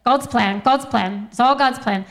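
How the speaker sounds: put-on a faint, half-hearted Australian accent on "God's plan"; playful amateur Australian twang, barely there; mock Australian accent. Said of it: "I don't know how to do an Australian accent".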